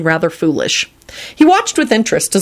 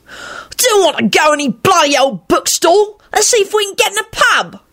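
put-on very high whining boy voice; loud whine; 13 semitones higher than usual. A narrator's reading. Victor complaining to Remus, high whine. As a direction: whine it like a fed-up youngster. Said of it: "Victor whined loudly".

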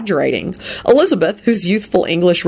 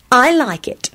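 high-pitched decided approval; definitive; 8 semitones higher than usual. A narrator's reading. Elizabeth approving Lupin's outfit, definitively. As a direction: approve with finality. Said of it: "she said definitively".

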